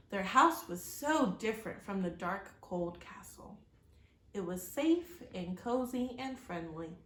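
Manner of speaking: steady, expressive read-aloud storytelling; story narration. A narrator's reading. Reading a storybook aloud to children, expressive narration. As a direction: tell the chapter to young listeners.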